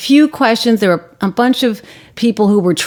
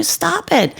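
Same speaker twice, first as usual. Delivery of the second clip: high, restrained imitation of a scream; retold scream; 8 semitones higher, 4 dB quieter than usual. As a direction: imitate her screamed order, holding back volume. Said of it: "And she's screaming".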